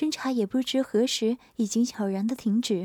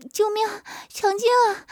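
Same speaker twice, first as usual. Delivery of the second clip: playful mock scream; 9 semitones higher than usual. A narrator's reading. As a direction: scream for help as a game. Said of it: "曲颖的大声叫道".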